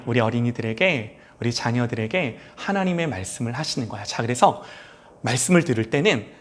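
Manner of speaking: gentle fatherly. Real, not acted. Father gently teaching his son Juyeon during worship, soft.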